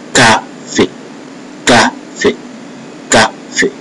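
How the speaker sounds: "café" as "ka-fay", in two separate syllables; French "café", repeated for learners; French E like "may". Shown as a demonstration. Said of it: "So it sound like a may".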